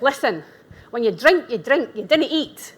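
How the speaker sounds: put-on quoting a Glasgow lady in a Scottish accent. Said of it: "I'm gonna tap into my Scottish accent".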